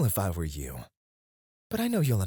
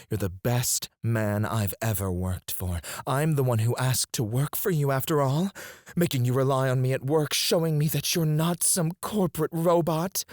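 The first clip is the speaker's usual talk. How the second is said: mock employee's voice, pitched up; speaking for the captive; 4 semitones higher than usual. Boss answering for the drugged employee, mock-obedient. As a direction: puppet the silent victim in a higher, brisker voice. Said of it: "I'll answer for you. I'll help move your head and say what you want to say".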